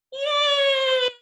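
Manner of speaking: high, loud triumphant yay; child's squealing cheer of joy; excited cheer. Acted. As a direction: cheer like you finally won. Penguin finally reaches the water.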